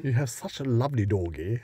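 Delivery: put-on light posh accent. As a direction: gush politely, posh. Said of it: "our most posh voice".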